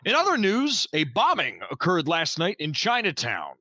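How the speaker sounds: formal on-air news read; lightly voiced news anchor; radio news read. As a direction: sign off like a local radio anchor. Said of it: "That was a great radio voice".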